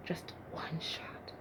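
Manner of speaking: very slow, very soft whisper; focused whisper. Acted. David aiming his sling at Goliath, slow hushed whisper. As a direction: breathe it out slowly, taking aim.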